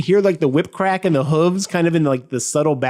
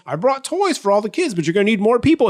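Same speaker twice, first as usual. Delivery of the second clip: a hint of a higher, pleased Santa; proud Santa; 5 semitones higher than usual. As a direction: announce the toys with mild pride. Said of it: "And he's like".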